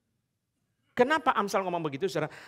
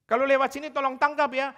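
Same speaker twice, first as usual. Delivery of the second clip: voicing foreigner; 7 semitones higher, 6 dB louder than usual. Foreigner asks them to catch pet.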